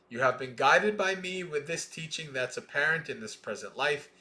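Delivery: measured, deliberate scripture reading; sutta recitation. Acted. Teacher reading the sutta to students, measured recitation. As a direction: recite each line of the chain steadily.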